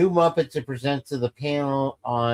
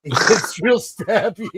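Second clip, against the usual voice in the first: laughing echo; 5 semitones higher, slower than usual. Real, not acted. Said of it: "the baby starts getting real stabby".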